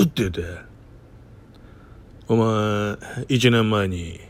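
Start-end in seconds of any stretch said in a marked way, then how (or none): 2.3-4.2 a hint of a low, terse movie tough guy; Takakura Ken style. The boss quizzing his junior, in a lightly voiced Takakura Ken manner. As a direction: lightly play a stoic film star, clipped and grave. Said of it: "高倉健みたいな、こんな口調で".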